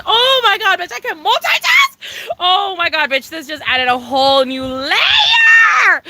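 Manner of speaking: high amazed oh my God, then slow; drawn out in amazement. Real, not acted. Amazed at multitasking.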